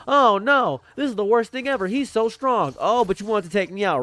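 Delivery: high, squeaky mock panic; hammed-up frightened victim. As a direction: play the whiny defeated enemy. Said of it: "they're gonna be struggling thinking".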